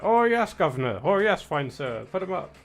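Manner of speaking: blustering tweed-jacket gent squaring up; old British gentleman. Retold or imitated. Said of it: "elderly men wearing, like, tweed jackets being like".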